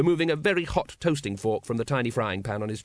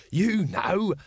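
slow, raised vendor voice; patient explaining; 5 semitones higher, much slower than usual. A narrator's reading. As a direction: spell it out slowly for a slow listener. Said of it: "said Throat patiently".

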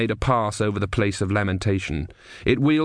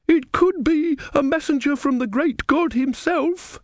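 much higher, slow woman's voice; awed woman, voiced higher and slowed; hopeful woman; slower than usual. A narrator's reading. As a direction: lift it high and linger, full of awe. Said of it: "said the woman".

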